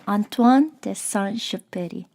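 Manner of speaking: the author's name in a careful French accent; French pronunciation. Shown as a demonstration. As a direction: pronounce it with relish, French-style. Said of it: "feel so happy when I pronounce it".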